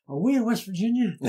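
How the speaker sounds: high, loud, puzzled question; an exhausted lineman baffled by the hills; bewildered question. Retold or imitated. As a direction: sound truly lost and amazed.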